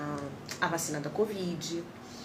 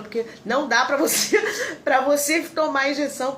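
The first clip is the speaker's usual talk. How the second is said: high nurse voice breaking into laughter; retold nurse lines, laughing; laughing through the nurse's scolding; 8 semitones higher, 6 dB louder than usual. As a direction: scold while cracking up. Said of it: "ela falou".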